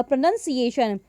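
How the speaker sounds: प्रोनंसिएशन as one word with NUN; correct pronunciation. Shown as a demonstration. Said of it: "ये इसका सही उच्चारण हो जाएगा".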